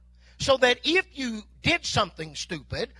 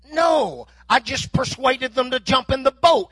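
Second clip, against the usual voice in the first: mock sarcasm; 3 semitones higher, 4 dB louder than usual. Sarcastic fisherman's reply.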